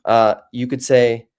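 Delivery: ordinary talk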